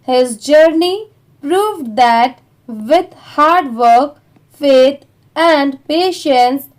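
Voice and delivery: very slow, word by word; slow read-along. Shown as a demonstration. Teacher reading the story slowly for students to repeat. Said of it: "चलिए start करते हैं".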